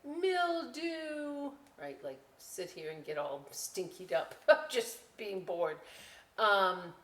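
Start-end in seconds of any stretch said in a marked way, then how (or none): 0.1-1.5 mother's retort. Retold or imitated. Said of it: "And she'd say".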